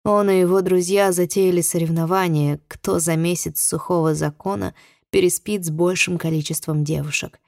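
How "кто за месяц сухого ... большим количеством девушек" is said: plain reading voice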